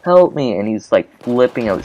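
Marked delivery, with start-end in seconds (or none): 0.0-0.6 high, panicked cry of help me; high mock panic, not full volume; mock scream for help. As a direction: imitate a kid screaming for help. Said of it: "he was just screaming".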